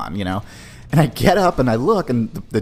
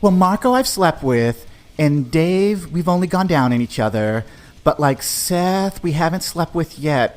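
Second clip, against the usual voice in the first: casual count; 5 semitones higher than usual. Retold or imitated. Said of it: "a very casual count".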